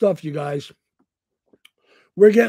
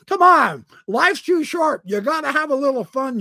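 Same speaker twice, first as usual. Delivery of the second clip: much higher and louder, gleeful; excited; 9 semitones higher, 6 dB louder than usual. Real, not acted. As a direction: throw it out with gleeful energy. Laughing off being rude.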